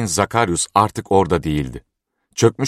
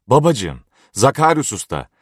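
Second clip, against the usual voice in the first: calling out; 6 semitones higher than usual. A narrator's reading. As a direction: call Babacığım and Zakarius Usta as if searching far off. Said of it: "diye bağırışlarına".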